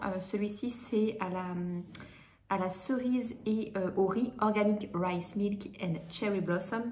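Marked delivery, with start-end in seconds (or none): 4.4-6.8 slow, careful English with a French accent. Real, not acted. Vlogger reads an English product name to viewers, slow French-accented English. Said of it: "Vous pouvez constater mon super accent, euh, anglais".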